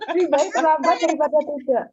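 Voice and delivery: joking through a laugh. Real, not acted. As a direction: say it while laughing.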